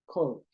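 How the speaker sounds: "Called" said quietly with a soft D; soft ending after L. Shown as a demonstration. Teacher repeats the word for students, soft final D. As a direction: let "Called" end on a gentle D. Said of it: "va a sonar un poquito más suave".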